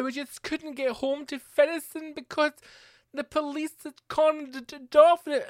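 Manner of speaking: high-pitched Glasgow West End caricature; hammed-up Glasgow West End whine; mock Glasgow West End accent. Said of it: "stupid fucking Glasgow West End accent".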